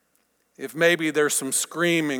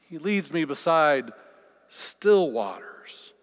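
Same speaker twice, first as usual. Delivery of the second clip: calm correction. Shown as a demonstration.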